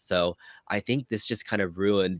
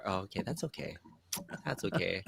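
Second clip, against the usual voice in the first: mock sad; 12 dB quieter than usual. Mock crushed reply.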